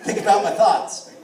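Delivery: loud, high, laughing butter rant; manic laughing rant. Real, not acted. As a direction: get giddy and loud about the butter.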